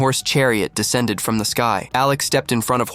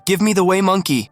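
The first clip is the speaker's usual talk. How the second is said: shout; 8 semitones higher than usual. Acted. Hualinger demanding the monkey from Alex, shouting. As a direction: yell it at him to hand the monkey over. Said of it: "She shouted".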